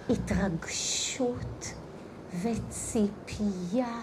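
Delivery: slow, low, hushed reverence; contemplative teaching. Acted. Teacher explains the empty vessel to listeners, hushed and contemplative. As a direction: let each phrase sink in, softly, with long pauses.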